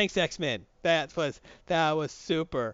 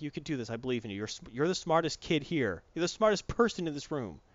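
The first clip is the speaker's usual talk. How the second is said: softer, gentle encouragement; reassuring; 2 semitones lower, 4 dB quieter than usual. Retold or imitated. Spinneret encouraging Normie, soft and reassuring. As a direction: coax him gently, quietly.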